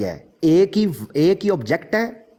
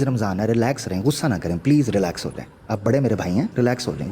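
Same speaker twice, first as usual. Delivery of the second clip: lower, soothing pleas to relax; calming; 5 semitones lower than usual. Real, not acted. Debater soothing his angry opponent, calm and reassuring.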